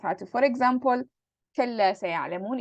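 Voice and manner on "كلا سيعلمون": quoting Quran. Shown as a demonstration. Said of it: "it comes in the Quran".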